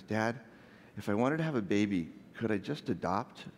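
softly voiced small sleepy child, slowing at the end; little voice. Son to dad in the dark after seeming asleep, lightly imitated little voice. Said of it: "then this little voice comes out".

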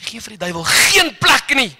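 quoted word of the Lord, shouted with authority; commanding scripture. Acted. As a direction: declare it like a battle cry. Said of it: "Sê".

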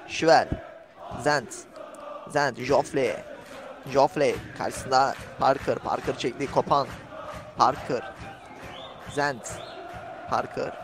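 commentator's running call of the players; live play-by-play. Real, not acted. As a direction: call the match as it unfolds, name by name. (canlı maç anlatımı)

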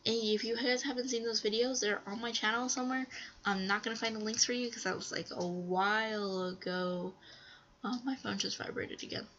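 stuffy nose; talking through a stuffy nose; blocked nose. Real, not acted. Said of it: "I'm a little stuffy".

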